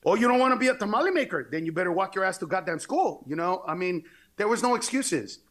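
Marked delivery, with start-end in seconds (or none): 0.1-3.2 sarcastic scolding mother. Retold or imitated.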